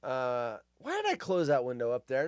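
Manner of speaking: usual speaking voice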